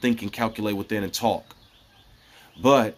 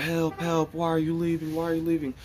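crying voices; 7 semitones higher, 3 dB quieter than usual. Retold or imitated. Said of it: "all this wailing and crying".

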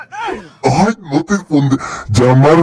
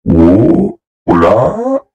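put-on other voice; 6 semitones lower than usual. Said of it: "voy a poner otra voz".

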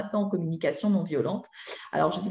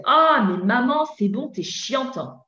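put-on teen snapping back at mum, raised and higher; whiny teenager; 5 semitones higher, 3 dB louder than usual. Teenager talking back to his mother, whiny and raised. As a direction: play the irritated ado brushing mum off. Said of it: "il vous dit".

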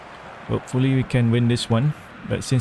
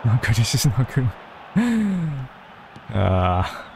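ordinary talk

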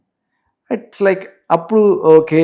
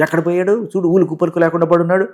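slightly raised, mildly scolding voice; mock scolding, pitched a little up; acted scolding; 4 semitones higher than usual. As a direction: play at telling off a servant. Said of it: "తిట్లు తిడతాడు".

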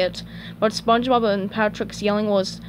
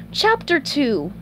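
slow, lightly raised storybook voice; SpongeBob reading soothingly; 5 semitones higher, slower than usual. Acted. Reading the grill her favorite story, slow soothing voice. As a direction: announce it gently and slowly. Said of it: "started to read with a soothing voice".

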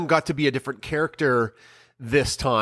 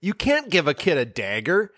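mock scolding Scarlet Witch; 5 semitones higher than usual. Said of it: "the Scarlet Witch cosplayer would be like".

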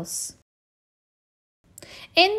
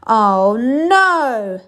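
higher, louder fed-up groan; weary groan; 4 semitones higher, 9 dB louder than usual. Acted. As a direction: groan like a worn-out bear. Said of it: "said Mister Bear".

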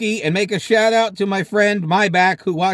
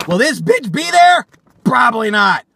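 scornful mock question; 3 semitones higher, 5 dB louder than usual. Mocks gym flyer invitation.

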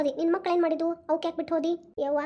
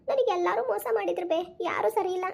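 tearful complaint; 4 semitones higher than usual. Pretend. Daughter wails complaint to scolding mother.

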